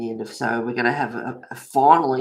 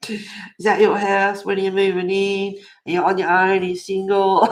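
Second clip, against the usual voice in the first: rapid-fire nosy questions, higher and louder; 5 semitones higher, 7 dB louder than usual. Retold or imitated. Chris quizzing the new neighbour, higher and louder.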